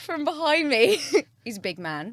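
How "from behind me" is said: high, loud yell; loud shout. Real, not acted. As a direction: shout it out, pitched up. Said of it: "he's hit those falsetto notes".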